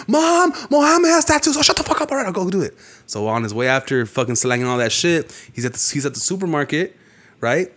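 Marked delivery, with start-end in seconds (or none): 0.1-2.8 tattle to mom in a high whine; whiny little brother. Retold or imitated. The little brother snitching to mom, a high whiny tattle.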